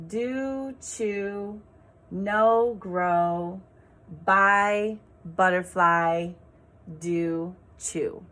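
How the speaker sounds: each rhyming word said alone, drawn out; teacher stressing each rhyming word; rhymes pointed out. Shown as a demonstration. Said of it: "So these words all rhymed".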